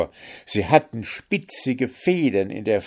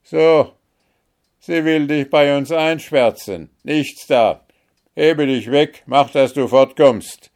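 loud, higher shouts driving her off; angry shouting; 8 semitones higher, 8 dB louder than usual. A narrator's reading. Guards driving Märchen from the gate, loud shouting. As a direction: chase her away. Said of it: "riefen die Wächter untereinander".

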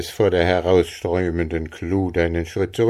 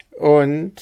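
high rasping goblin sneer; snarling goblin; 9 semitones higher, 5 dB louder than usual. A narrator's reading. Goblin mocks the farmer with a high rasping sneer. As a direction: sneer down at the fool.

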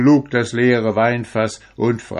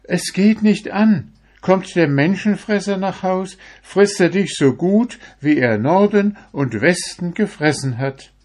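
put-on high, loud old woman warning; 10 semitones higher, 4 dB louder than usual. A narrator's reading. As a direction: warn him in a high old voice. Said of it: "Die Frau aber entgegnete".

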